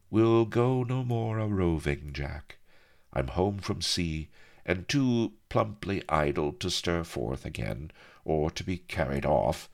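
lightly voiced, languid sea-woman; lilting start, easing down gently; wistful pirate woman. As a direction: let the old rover's farewell drift. Acts the pirate woman's reply.

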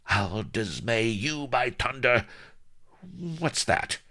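high-pitched, irate mistress; threaten, then demand sharply; pirate wench threat. A narrator's reading. Pirate mistress threatens her slave.

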